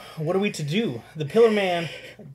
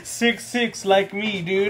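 mocking imitation; 4 semitones higher, slower than usual. Mocking friend's height brag.

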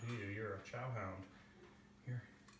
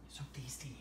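breathy whisper to a dog; 8 dB quieter than usual. Real, not acted. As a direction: whisper it softly. Whispered then voiced.

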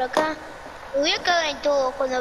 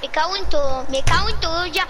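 loud curse; 4 dB louder, faster than usual. Real, not acted. Scared during horror game.

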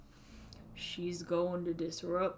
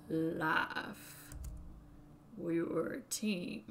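put-on old Southern man voice; southern accent. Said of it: "when I do a southern accent".

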